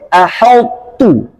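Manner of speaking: slow "aheltu" with heavy h; wrong thick aheltu. Shown as a demonstration. Teacher shows what is forbidden. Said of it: "Nggak boleh".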